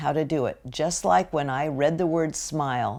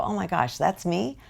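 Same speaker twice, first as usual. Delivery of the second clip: higher, questioning disbelief; mock surprise; 3 semitones higher than usual. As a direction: act taken aback at your own voice. Reacting to own recorded voice.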